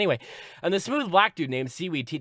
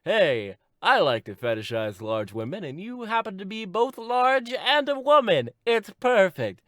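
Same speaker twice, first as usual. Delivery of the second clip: high, loud salesman pitch; hammed-up enthusiastic caller; creepy admirer; 8 semitones higher, 5 dB louder than usual. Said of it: "this one dude who's like".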